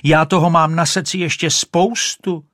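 desperate call after the swimming duck; shrieking. Acted. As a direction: shriek for the duck to come back. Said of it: "ječela Rachejtle".

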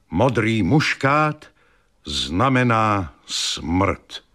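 slow, doom-laden prophecy; slow, grave warning of death; ominous letter. Acted. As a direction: read it like a threat from a seer. Ominous anonymous letter read.

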